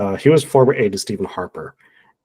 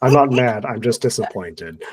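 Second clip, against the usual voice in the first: disappointed mom voice; slower than usual. Retold or imitated. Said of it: "disappointed mom voice".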